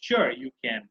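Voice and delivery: "can" coming down a bit; flat answer tone. Shown as a demonstration. Teacher models granting permission, flat tone ending on "can". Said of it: "just the flat tone".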